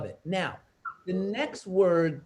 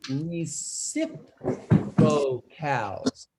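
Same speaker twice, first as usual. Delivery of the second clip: slow, drawn out; 4 semitones lower, much slower than usual. Shown as a demonstration. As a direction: stretch reciprocals out syllable by syllable. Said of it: "Can everybody say ros-, reciprocal?".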